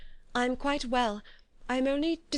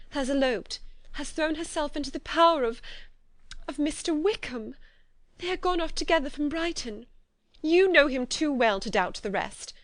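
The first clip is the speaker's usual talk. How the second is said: rising distress, high and louder toward the end; 5 semitones higher, 4 dB louder than usual. A narrator's reading. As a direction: pour out the dreadful news, voice climbing. Elizabeth confesses dreadful news.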